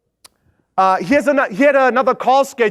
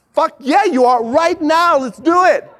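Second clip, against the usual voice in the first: hyped cheer; 7 semitones higher, slower than usual. Retold or imitated. Flavio hyping the prospect into signing, triumphant. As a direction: celebrate the win. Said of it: "Flavio's like".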